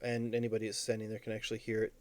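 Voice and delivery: ordinary talk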